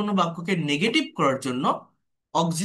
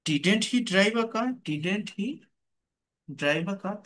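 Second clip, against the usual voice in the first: slow dictation; much slower than usual. Shown as a demonstration. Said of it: "teacher dictating slowly".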